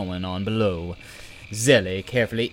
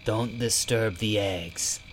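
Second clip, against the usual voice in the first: slow, choked and frightened; scared; slower than usual. Acted. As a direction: warn them in a choked, fearful voice. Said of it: "Bobble's choked, frightened voice".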